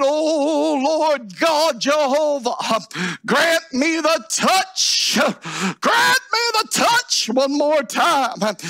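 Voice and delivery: drawn-out, pleading pulpit cry; crying out in prayer. Acted. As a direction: stretch the plea out to heaven. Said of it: "and he lifted his voice".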